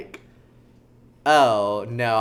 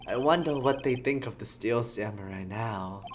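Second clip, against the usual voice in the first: sleepy New Yorker. Acted. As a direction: muse in a gentle New York accent. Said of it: "sleepy New Yorker".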